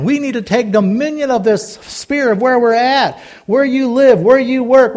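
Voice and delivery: earnest preacher building a list; impassioned preaching. Real, not acted. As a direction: urge the congregation on, phrase after phrase. Preaches exhortation on taking dominion.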